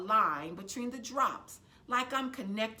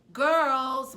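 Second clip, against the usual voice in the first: sharp louder call of a worn-out mother; loud tense call to the girls; tense, tired; 4 semitones higher, 11 dB louder than usual. A narrator's reading. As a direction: snap for their attention, exhausted. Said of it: "voice tense, tired".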